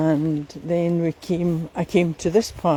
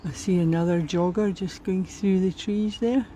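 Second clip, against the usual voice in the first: slightly puffing while walking; out of breath. Real, not acted. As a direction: talk between breaths on a walk. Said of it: "I sound as if I'm out of breath".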